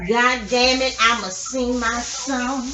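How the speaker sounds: loud and slow; loud drawn-out declaration. Real, not acted. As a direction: belt it out, drawn out. Announces singing her song.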